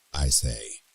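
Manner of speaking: ordinary talk, nothing marked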